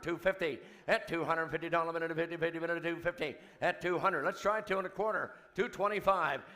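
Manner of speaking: rapid auctioneer chant. Real, not acted. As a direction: rattle off the bids like an auctioneer.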